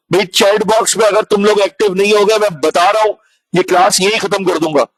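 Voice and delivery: real teacherly exasperation; exasperated scolding. Real, not acted. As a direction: scold an unresponsive class, frustrated. Teacher scolds inactive online class.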